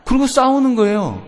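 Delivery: usual speaking voice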